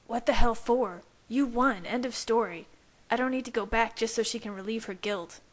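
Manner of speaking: a wounded rival lashing out; bitter young werewolf. A narrator's reading. Jacob rejects the vampire's plea, angry. Jacob voiced against narrator.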